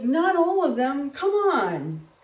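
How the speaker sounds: loud, slow exasperated scolding; mock cranky scold. Cranky manager scolding her, slow and loud. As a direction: scold like a fed-up boss.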